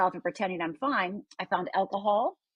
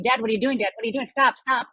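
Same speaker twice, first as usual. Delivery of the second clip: retold screaming; 5 dB louder, faster than usual. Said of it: "I start screaming".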